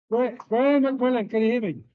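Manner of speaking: loud call to one man; calling from far away. Real, not acted. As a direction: project the name across the room. Calling one man across the room.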